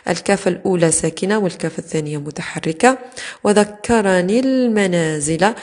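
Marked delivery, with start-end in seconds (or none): 3.4-5.5 slow وذكرني المنازل as wa-dhakkaranil-manaazila; linked, ya dropped. Shown as a demonstration. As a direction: stretch وذكرني المنازل, leaning on the joining l. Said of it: "تحذف ياء المتكلم لالتقاء الساكنين".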